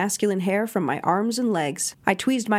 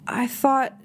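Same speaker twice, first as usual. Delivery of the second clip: "I thought" protested higher, indignant; expostulating; 4 semitones higher than usual. A narrator's reading. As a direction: push back in disbelief on "thought". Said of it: "he expostulated".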